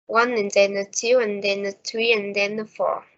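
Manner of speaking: steady beat on one, two, three, four; stress-timed rhythm. Shown as a demonstration. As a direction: stress each number, squeeze "and then a" between beats. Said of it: "time between stressed words is always the same".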